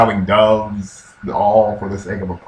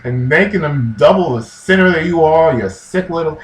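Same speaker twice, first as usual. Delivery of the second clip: raised-pitch mock tirade; hammed-up scolding rant, higher voice; smack talk; 4 semitones higher, 4 dB louder than usual. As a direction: lay into them with mock fury. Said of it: "starts talking this smack like".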